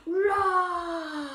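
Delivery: long, high playful roar; tiger roar. Shown as a demonstration. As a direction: roar like a tiger for little children. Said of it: "Can you all roar with me".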